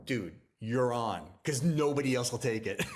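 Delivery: laughing through the line; giddy laughing acceptance; laughing as he agrees to the deal. Retold or imitated.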